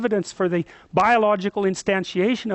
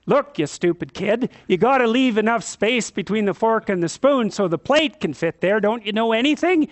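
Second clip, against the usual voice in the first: mock harsh parent. Shown as a demonstration. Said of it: "And you don't say".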